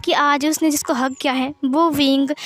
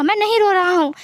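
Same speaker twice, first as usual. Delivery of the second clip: much higher and louder, fast, near hysterical; shouted crying denial; 6 semitones higher, 3 dB louder than usual. Acted. Wing yelling at Wangji that he isn't crying, shouted sob. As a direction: scream the denial through sobs.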